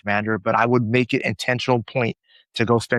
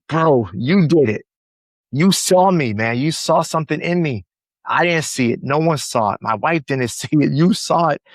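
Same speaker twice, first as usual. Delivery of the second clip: grateful excitement; 5 semitones higher than usual. Retold or imitated. Retelling Chris's bear-hug thanks, mock overjoyed voice. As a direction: relive the friend's overjoyed thanks.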